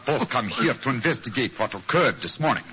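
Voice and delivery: lightly put-on German accent; a hint of a stiff German count greeting guests. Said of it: "And my accent".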